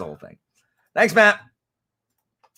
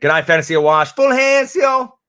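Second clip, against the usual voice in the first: loud send-off, jumping high at the end; big, high, loud sign-off; calling out; 10 semitones higher, 9 dB louder than usual. Real, not acted. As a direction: holler a goodbye. Calling a goodbye to a departing viewer.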